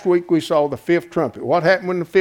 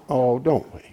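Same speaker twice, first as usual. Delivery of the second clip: tender comfort; 4 semitones lower, 5 dB quieter than usual. Retold or imitated. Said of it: "one of the elders said to him".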